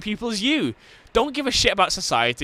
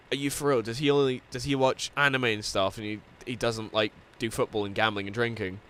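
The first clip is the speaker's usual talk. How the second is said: softer, lower, confiding; hushed question; 6 semitones lower, 7 dB quieter than usual. Retold or imitated. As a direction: murmur it like gossip to a mate. Manager asks quietly, retold.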